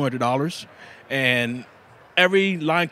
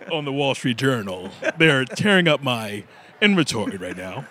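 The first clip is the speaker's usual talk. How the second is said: hammed-up wealthy man's voice; rich man's voice. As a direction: play at sounding rich and important, jokingly. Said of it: "get my rich voice".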